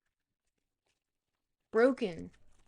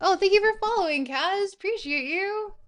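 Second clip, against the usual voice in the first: excited thanks; 10 semitones higher, 8 dB louder than usual. Real, not acted.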